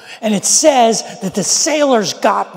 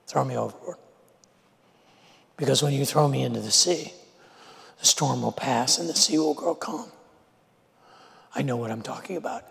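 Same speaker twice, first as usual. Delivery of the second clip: much softer, low steady voice; calm quiet resolve; 3 semitones lower, 8 dB quieter than usual. Retold or imitated. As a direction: say it gently, accepting fate. Jonah tells sailors to throw him.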